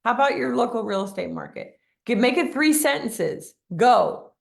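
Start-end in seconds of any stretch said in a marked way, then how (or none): 0.0-1.8 higher voice, mock-flustered viewer; mock panic. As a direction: play the frazzled agent, lightly. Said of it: "and you're like".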